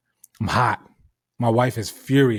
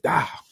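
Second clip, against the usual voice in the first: higher-pitched mock spit noise; imitated spitting; 5 semitones higher than usual. Re-enacting spitting on her truck as they pass, imitated spitting. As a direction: act out spitting with an exaggerated "ptooah". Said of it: "I fucking spit on her shit".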